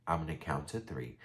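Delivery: soft, low imitation of him; quiet, controlled ultimatum; calm warning. Vlogger quoting the man warning Sebastian he will count, calmly. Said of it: "he just says really calmly".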